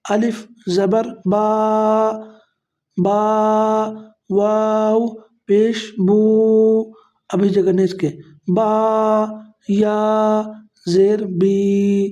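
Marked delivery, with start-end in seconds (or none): 0.1-5.2 drawn out spelling. Shown as a demonstration. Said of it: "اتنا کھینچ کے پڑھنا ہے". 5.2-6.8 بو held long for two counts; stretched vowel. Shown as a demonstration. Teacher showing students how بو is stretched, held long. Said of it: "کھینچ کے پڑھیں گے". 10.9-12.1 بی held long for two counts; stretched vowel. Shown as a demonstration. Teacher showing students how بی is stretched, held long. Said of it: "دو حرکات کے برابر کھینچ کے پڑھیں گے".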